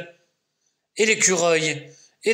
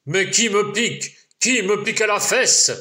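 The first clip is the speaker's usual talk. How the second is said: lumberjack yelling; 7 semitones higher, faster than usual. Acted. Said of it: "le bûcheron hurle".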